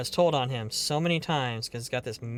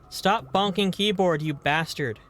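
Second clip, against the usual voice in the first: a half-hearted mock scolding, louder and higher; 4 semitones higher, 5 dB louder than usual. Streamer mock-scolds cat bonking the keyboard, playfully stern. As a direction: tell the cat off without meaning it.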